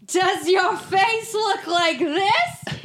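slow, high, sing-song commercial announcer; cheesy ad voice. Retold or imitated. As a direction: read it like a hammy TV ad. Reading the ad in announcer voice.

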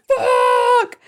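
high, loud, comic scream; shocked shout. Acted. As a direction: yell the curse in shock. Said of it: "he's like".

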